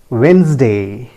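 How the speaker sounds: Wednesday slowly as WENZ-day; two drawn-out syllables in Wednesday; correct pronunciation. Shown as a demonstration. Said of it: "The correct pronunciation is". (Wednesday का सही उच्चारण, धीरे से)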